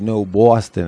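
insistent imitated Boston accent. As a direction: correct them in a Boston accent. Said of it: "you said Boston".

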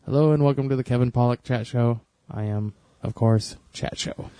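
quick, lightly imitated host intro, last words whispered; a hint of a rapid podcast welcome, fading out; Kevin Pollak impression. Mimicking Kevin Pollak's chat show opening, trailing to a whisper. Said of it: "he always says".

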